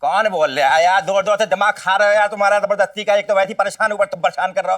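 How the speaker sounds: high, exasperated complaint; annoyed bickering. Acted. Quarrel over loud phone talk. (झुंझलाकर ऊँचे सुर में शिकायत)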